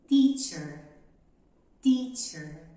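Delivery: "teacher" with a crisp dry t and a ch in the middle; dry English t. Shown as a demonstration. Teacher modelling a dry t in "teacher". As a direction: keep the t of "teacher" short and dry. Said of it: "tem que ser bem mais seca".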